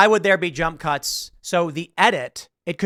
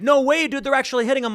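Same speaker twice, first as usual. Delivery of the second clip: high-pitched credulous friend; retold astonished insistence; mock disbelief; 8 semitones higher than usual. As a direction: imitate an amazed buddy, pitched up. Imitates his credulous friend.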